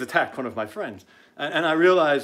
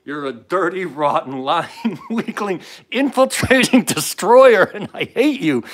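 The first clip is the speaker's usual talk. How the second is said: building from loud to a shouted, higher climax; real angry tirade; 4 semitones higher, 9 dB louder, slower than usual. Real, not acted. Host denounces Wilbur as a destroyer, furious building rant. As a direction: hurl each insult harder until you are shouting.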